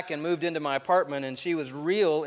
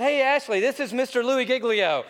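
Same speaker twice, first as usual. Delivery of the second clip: playful announcement; 9 semitones higher, 5 dB louder than usual. Retold or imitated. Replying as himself, playful.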